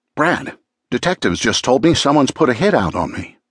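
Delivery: pressing, urgent tone. Narrator reads a deputy district attorney calling him, urgent. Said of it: "her tone urgent".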